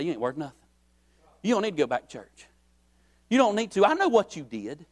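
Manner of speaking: a lightly voiced Satan hissing accusations; Satan whispering. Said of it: "He's gonna whisper and say".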